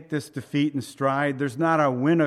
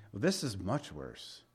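quiet emphasis; 7 semitones lower, 9 dB quieter than usual. Real, not acted. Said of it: "repeated for emphasis".

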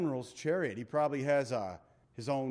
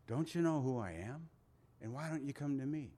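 gentle invitation; 5 dB quieter than usual. Retold or imitated. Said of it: "Jesus says it in a way".

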